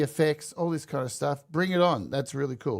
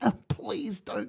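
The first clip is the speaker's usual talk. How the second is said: breathy, whispered, pleading, under the breath; 6 semitones higher, 6 dB quieter than usual. Mocking a tech boss handing over a gold statue: imitating Tim Cook pleading. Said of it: "Tim Cook literally licking Donald Trump's ass".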